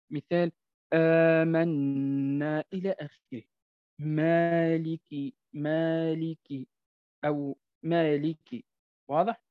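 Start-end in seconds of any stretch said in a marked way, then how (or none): 0.9-2.6 آمنا drawn out slow, thin alif; ألف مرققة في آمنا; light alif. Shown as a demonstration. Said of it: "متى ترقق؟". 4.0-8.6 مالك with a long thin alif, slow; light alif. Shown as a demonstration. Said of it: "متى ترقق؟".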